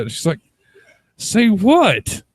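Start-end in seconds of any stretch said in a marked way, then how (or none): 1.2-2.2 put-on high, loud cantankerous old woman; old granny. Granny challenging her granddaughter, loud old-woman voice. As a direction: squawk it as a baffled old granny. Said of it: "this old, like, old-ass woman".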